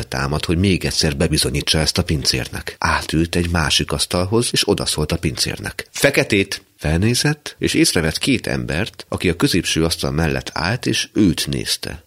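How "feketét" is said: calling the waiter. Acted. Calls out to the waiter.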